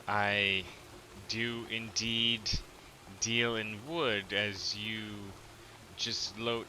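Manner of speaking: slow, measured lady with long pauses; reserved lady. Acted. Lady answers Gra's offer about wood, measured. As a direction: answer haltingly, word by careful word. Game master voices the lady's reply.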